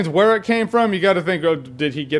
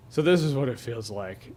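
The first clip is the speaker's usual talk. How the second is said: dying whisper; 8 semitones lower, 9 dB quieter than usual. Retold or imitated. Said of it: "He's like".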